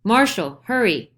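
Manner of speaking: loud, high call; Paris calls down the hall, loud; calling down the corridor. A narrator's reading. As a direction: call out for the marshal. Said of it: "calls down the corridor".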